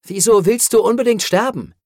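high, loud, incredulous demand; exasperated question. Acted. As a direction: challenge them in disbelief. Hero challenges the creature.

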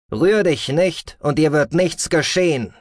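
high, slow distorted threat; menacing distorted command. A narrator's reading. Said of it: "erklang eine verfremdete Stimme".

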